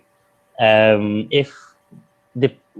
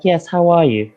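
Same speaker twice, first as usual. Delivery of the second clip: lighter, higher London voice; London accent; 5 semitones higher than usual. Shown as a demonstration. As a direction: lift it into a polite London accent. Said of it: "my voice would get a little bit lighter".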